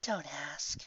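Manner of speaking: indignant. Acted. Pony stuck to ceiling brushes off her friend, indignant. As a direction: brush the question off in a huff. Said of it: "indignant reply".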